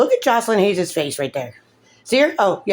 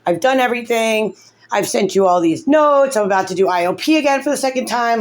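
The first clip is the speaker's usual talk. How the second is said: higher-pitched, insistent plea; begging; 4 semitones higher than usual. Retold or imitated. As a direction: plead your case, pitch lifted. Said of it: "I'm begging".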